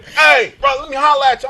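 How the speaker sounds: loud, high street call; mock shout from the curb; imitating the sister. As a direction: hail him like a hustler from the car. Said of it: "The sister pulled up on me like".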